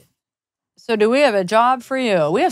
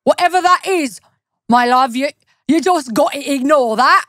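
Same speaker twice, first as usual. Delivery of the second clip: Cockney grandma; 3 semitones higher than usual. Pretend. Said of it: "her insane husky Cockney grandma accent".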